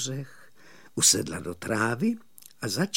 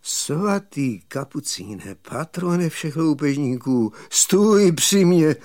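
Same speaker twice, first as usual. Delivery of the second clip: failing voice; slower than usual. Acted. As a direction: call on the saint as if at your last. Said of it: "zvolal skomírajícím hlasem". (zvolání skomírajícím hlasem, pomalu)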